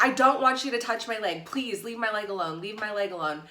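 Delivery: half-voiced scream of protest; retold screaming. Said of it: "I start screaming".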